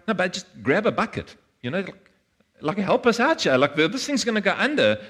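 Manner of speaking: frantic disciples begging for help; urgent plea for help. Retold or imitated. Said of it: "they were like".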